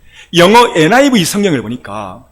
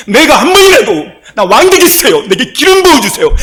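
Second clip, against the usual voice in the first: lightly voiced pleading king, higher and louder at the start and end; David praying; 4 semitones higher, 4 dB louder than usual. Preacher voicing David's complaint to God, earnest higher plea.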